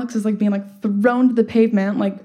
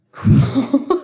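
a wry word already laughing; deadpan word that cracks into laughter; laughing sarcastic; 5 semitones higher, 4 dB louder than usual. Retold or imitated. Fire on bed, sarcastic reply.

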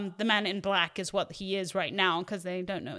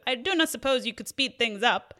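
rough attempt at a Spanish accent; lightly put-on Spanish accent, slightly stilted; 3 semitones higher than usual. Podcaster quoting Inigo to the co-host, attempted Spanish accent. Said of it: "he says in his Spanish accent".

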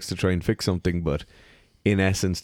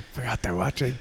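laughing; 5 semitones higher, 3 dB quieter than usual. Real, not acted. Laughing at the slip.

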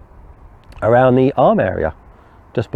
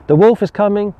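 high-pitched mock warning; storyteller's raised-pitch call of wolf; boy crying wolf; 9 semitones higher than usual. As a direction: lightly act out the boy's false alarm. Boy cries wolf second time.

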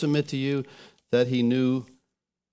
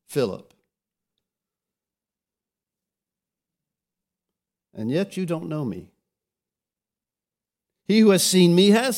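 Jesus rebuking; 4 semitones higher, 4 dB louder than usual. Retold or imitated. Jesus asking Philip why he still does not know him, louder. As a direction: press the question home. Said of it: "And Jesus says to him".

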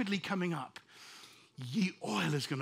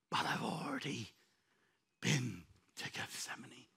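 hushed Jesus; 7 semitones lower, 8 dB quieter than usual. Acted. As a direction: breathe it out in a whisper.

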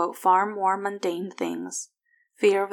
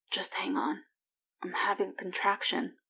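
tight, strained whisper, much softer; through clenched teeth; 7 dB quieter than usual. A narrator's reading. Wife whispers through clenched teeth mid-contraction. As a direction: push the words out through the pain. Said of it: "between clenched teeth".

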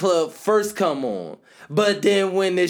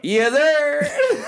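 hype shout. Real, not acted. Shouting in response to friend.

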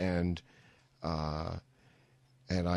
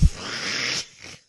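short burst of laughter. Retold or imitated. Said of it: "burst out laughing".

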